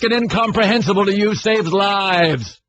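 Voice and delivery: lightly boyish attempt at the colonel's speech; Jack Nicholson lines. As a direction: declaim it grandly with too little bass. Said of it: "You sound like a thirteen-year-old boy".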